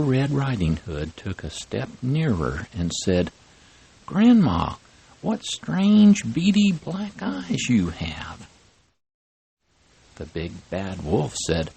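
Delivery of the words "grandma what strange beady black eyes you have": put-on high little girl's voice, puzzled; a child asking grandma, concerned; little girl worried. Red Riding Hood voice.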